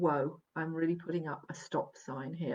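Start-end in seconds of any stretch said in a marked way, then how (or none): none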